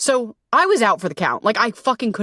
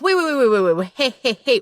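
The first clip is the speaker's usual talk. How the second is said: urgent stop; 3 semitones higher, faster than usual. Acted. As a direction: cut them off sharply. Coach halting the trend.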